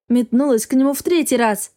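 ordinary delivery

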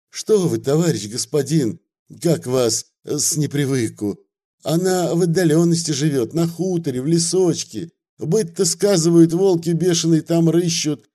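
выше, распевный запугивающий говорок; отговаривает гостя страшилками про волков; Вавила, хитрит и пугает. Acted. (хитрый распевный говорок)

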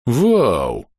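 amazed exclamation; stunned wow. A narrator's reading. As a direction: exhale a dumbfounded wow. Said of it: "Никс ошарашенно покачал головой".

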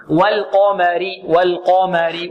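slow والقمر, dark qaf and light mim; heavy qaf. Shown as a demonstration. Teacher models the word, slow heavy qaf. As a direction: recite والقمر with a full "qo", thin "ma". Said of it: "وعند القاف هنا مفخمة".

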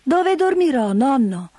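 put-on high, eager child's question; eager little girl. Heidi asks grandfather where to sleep, high eager voice. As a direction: ask like an excited small child.

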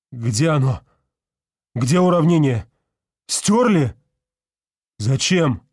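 всё выше и громче, в панике; кричит, охваченный ужасом; паническое восклицание. A narrator's reading. Профессор в панике ищет уравнение. (профессор в панике кричит, увидев пустую доску)

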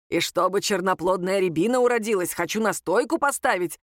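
usual speaking voice

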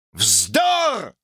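high indignant cry; a tramp's scornful cry of nonsense; exclaimed outburst. Acted. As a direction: snap it out in outrage. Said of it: "вскричал".

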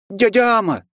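put-on high, loud joyful cry of a boy; boy exclaims seeing his uncle, loud and high; exclaiming child. A narrator's reading. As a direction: call out happily to his uncle. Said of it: "воскликнул он".

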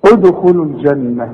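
ادخلوا recited with a bounced d; qalqalah on د. Shown as a demonstration. Teacher giving the last example, qalqalah in ادخلوا. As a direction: release the د of ادخلوا before the kh. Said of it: "شوف الدال".

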